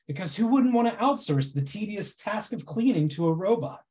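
dry mock reassurance; deadpan irony, tongue in cheek; sarcastic. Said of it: "my incredibly sarcastic presentation".

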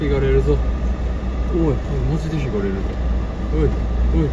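loud warning call. Real, not acted. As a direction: call out to the pigeon. Warning pigeon about cars.

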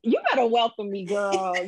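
quick hype. Real, not acted. Guest praises host's big introduction, quick hype. Guest hypes the welcome, first take.

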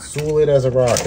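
a lightly put-on New York accent on Solid as a rock; hint of Long Island in Solid as a rock; half-hearted New York accent; terrible New York accent. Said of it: "Terrible New York accent".

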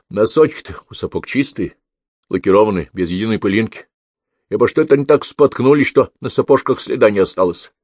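put-on a canny old policeman leading the detective on; shrewd old overseer. Overseer points at clean boots.

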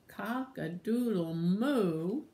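slow, drawn-out cow call; cow's crow. Acted. Cow waking everybody on the farm, slowly calling. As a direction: stretch the crow out to a long moo. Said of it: "So the cow went".

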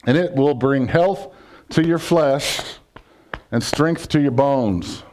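drawn-out, deliberate verse reading; slow scripture reading. Acted. Preacher reading the verse aloud to his church, slow and solemn. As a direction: lay the verse down slowly.

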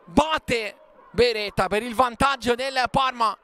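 excited shouted goal call; goal commentary shout. Real, not acted.

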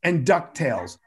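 slow, deliberate classroom chant; slow sing-song class rule; teacher cue. Shown as a demonstration. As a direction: say it like a kindergarten teacher. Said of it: "I looked and I go".

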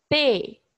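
pepino said in three separate beats, pe-pi-no; teacher syllabifying for children; split into syllables. Shown as a demonstration. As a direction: open the mouth three times: pe-pi-no. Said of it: "abre a boca três vezes pra falar".

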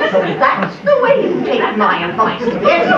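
laughing scorn at her; scoffing laugh. Acted. Aunt March scoffing at Meg.

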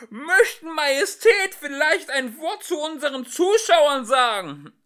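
high, loud hoarse call; hoarse shout. Acted. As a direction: shout hoarsely over the noise. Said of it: "rief heiser durch den Lärm".

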